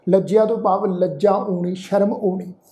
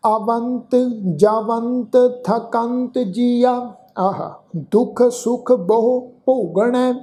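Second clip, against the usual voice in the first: slow, measured chanting of the slok; scripture recitation; slower than usual. Acted. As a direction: recite each phrase slowly and reverently. (ਹੌਲੀ ਸ਼ਲੋਕ ਪਾਠ)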